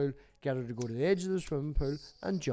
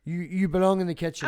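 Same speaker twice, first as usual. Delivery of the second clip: a louder, hammed-up mock chauvinist decree; mock sexist preacher; 5 dB louder than usual. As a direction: lay down the law, mocking the preacher. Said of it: "All these things you need to learn your place".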